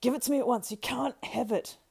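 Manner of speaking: high, very loud demand; frantic possessive cry. Acted. Frodo claims the Ring from Sam, frantic shout. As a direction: shout it, dragging out the refusal. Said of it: "he cried".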